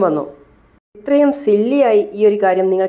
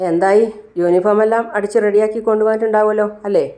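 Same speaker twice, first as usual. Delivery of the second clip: eager owner; 4 semitones higher, 4 dB louder than usual. Acted. Owner eagerly greets visitors.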